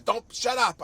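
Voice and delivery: imitating an enraged father's shout; furious yell. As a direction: bark it at the kid to shut him up. Father cuts son off again.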